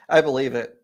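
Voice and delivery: says it through a laugh; chuckling agreement; a laugh spilling into the words. Real, not acted.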